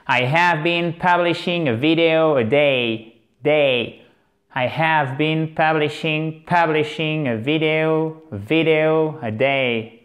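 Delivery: slow, careful English model sentence; a clear final model for learners to repeat; teacher's slow repetition. Shown as a demonstration. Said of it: "Répétons-le une dernière fois".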